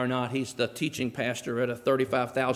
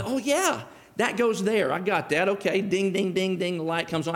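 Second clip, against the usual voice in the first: mock delighted realization, higher; sudden realization; 3 semitones higher than usual. Preacher acting out an aha moment, mildly excited. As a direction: act out the penny dropping.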